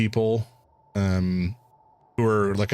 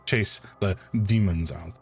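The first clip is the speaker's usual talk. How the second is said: put-on a light French accent with a touch of German; grave warning in a wavering French accent. Doctor warning the player about exorcism, French-German accent. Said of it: "French with touches of German".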